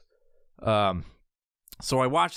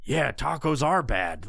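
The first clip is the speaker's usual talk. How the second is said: slow, lightly voiced dumb agreement; mock gullible; slower than usual. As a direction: play a brainwashed scroller, slowly. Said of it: "look and be like".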